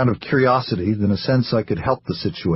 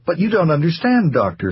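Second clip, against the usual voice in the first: placid; 7 semitones higher than usual. Acted. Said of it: "Sarah explained placidly".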